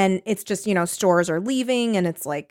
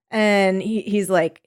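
normal talking voice

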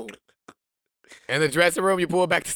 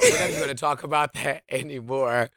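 laughing; 3 semitones lower, 4 dB quieter than usual. Real, not acted. Laughing while repeating.

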